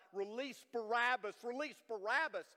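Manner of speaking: retold crowd yell. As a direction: call it out like a worked-up crowd. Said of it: "they began to yell out".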